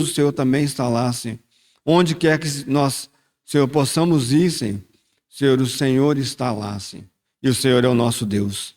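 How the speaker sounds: earnest prayer voice, Senhor repeated as a refrain; fervent prayer. Acted. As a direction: pray aloud for the congregation. Pastor leads congregation in prayer. (oração fervorosa em voz alta)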